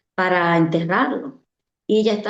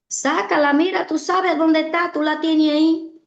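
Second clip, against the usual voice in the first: taunting inner voice; 7 semitones higher than usual. Retold or imitated. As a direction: egg her on like a tempter. Enemy's taunting voice in her head.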